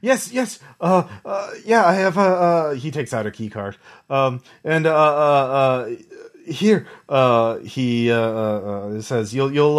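nervous stammering, many false starts; stuttering scared scientist. Acted. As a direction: stammer it out, barely coherent. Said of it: "he's just kind of stuttering".

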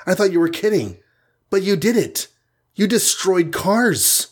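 high and wide-eyed, can't believe it; amazed. Acted. Hawkeye amazed at the win.

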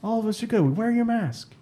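lightly voiced old politician; politician impression. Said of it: "keep saying it in that voice".

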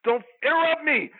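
lightly played wrestler threatening; wrestling promo. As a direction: cut the promo with a grin.

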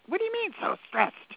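high, offended squeal of disbelief; indignant mock outrage. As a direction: act insulted, pitch shooting up. Indignant reply to husband's advice.

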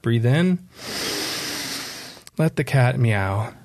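measured breathing cues with long pauses; unhurried, calm instruction; guided meditation. Shown as a demonstration. Author leading a breath over a meowing cat, meditative. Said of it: "a little bit of a guided meditation".

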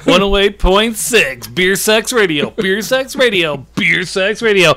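hammed-up radio station ident, chanted; radio jingle. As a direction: announce it like a cheesy DJ jingle.

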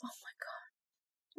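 breathless whispered groan; whispered exasperation. Real, not acted. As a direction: whisper it in disbelief. Exasperated reaction to Shire claim.

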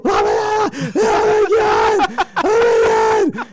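very high, drawn-out mock screaming; imitated freak-out scream. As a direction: shriek it like a woman losing it. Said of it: "she's still".

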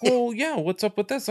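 hammed-up parent; mock parental scolding. Rental staff scolding the customer like a parent. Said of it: "say it like you're, they're your parent".

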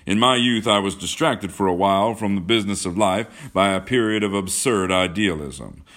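put-on loud, declaiming older man; proud Braddock Washington. A narrator's reading. Washington recalls his youth to John, loudly assured.

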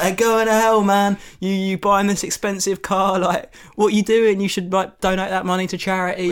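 ranting sermon. Retold or imitated. Retelling lecturing the gentle woman about her car, loud rant. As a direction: berate her about the car, full pitch. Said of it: "Genuinely, I'm like".

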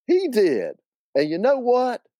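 high-pitched Southern woman; eager, high reveal; conspiratorial aunt. Acted. Acted aunt revealing the punchline.

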